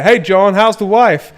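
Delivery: hammed-up cheery neighbour; friendly neighbour greeting. Acts the polite greeting he prefers.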